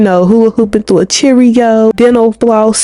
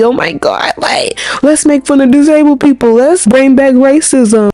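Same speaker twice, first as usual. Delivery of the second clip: mocking edgy fan; 4 semitones higher than usual. Mocking edgy fans, whispered line.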